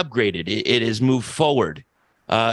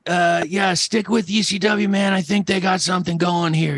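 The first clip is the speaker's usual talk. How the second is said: Terry Funk voice; 5 semitones higher than usual. Retold or imitated. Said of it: "that Terry Funk voice".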